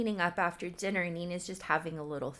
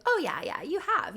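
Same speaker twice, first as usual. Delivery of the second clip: retold placating; 11 semitones higher, 4 dB louder than usual. Boyfriend hurriedly placates girlfriend.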